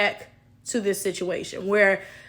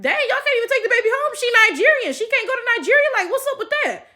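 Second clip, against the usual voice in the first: higher, quicker baffled rant; baffled disbelief; 11 semitones higher, faster than usual. Retold or imitated. Told they can't visit Nigeria, baffled fast high disbelief. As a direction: retell your past confusion, pitched up and fast. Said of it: "I was just like".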